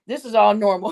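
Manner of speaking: says it again while breaking into laughter; laughter spilling through the words; laughing. Real, not acted. Reassuring the viewers, but laughing. Repeats the line, cracking up.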